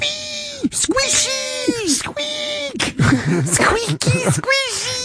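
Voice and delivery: very high squeaky toy squeals; rubbery high squeaky toy. Acted. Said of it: "pretty generic impression".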